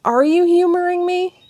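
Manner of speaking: tearful suspicion; high hurt question. Acted. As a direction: accuse him through tears. Thessia hurt.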